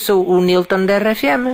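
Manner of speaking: low put-on caller voice; disguised deep voice. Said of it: "vou mudar a voz".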